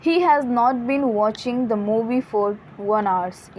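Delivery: each word read out very slowly; slow example read. Shown as a demonstration. Teacher to students, reading the example very slowly. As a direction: spell the sentence out slowly for the class. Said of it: "reading example sentence".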